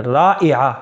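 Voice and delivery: رائعہ as "raa-i-a", break at the hamza; hamza and Ain. Shown as a demonstration. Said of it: "حمزہ کے ساتھ رائعہ".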